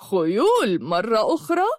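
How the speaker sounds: scornful, incredulous question; contemptuous. Acted. Ridiculing two visitors asking for horses, contemptuous. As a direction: sneer at the repeated request. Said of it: "وطالعهما بازدراء وقال".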